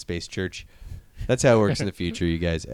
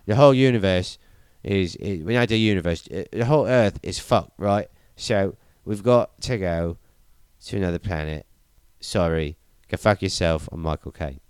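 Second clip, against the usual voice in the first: broad mock Cockney English accent; Michael Caine. Dying professor confessing the one-way mission, in a mock Cockney accent. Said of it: "Michael Caine's like".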